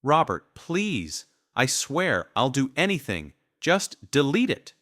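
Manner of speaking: high, loud tearful begging; wife sobbing at husband to delete it; sobbing plea. A narrator's reading. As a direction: plead through sobs. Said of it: "Judy's sobs grew louder".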